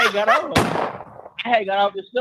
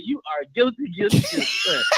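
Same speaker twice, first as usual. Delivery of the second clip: mock judge verdict; 6 semitones higher than usual. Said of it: "got the damn wig and the gavel and said".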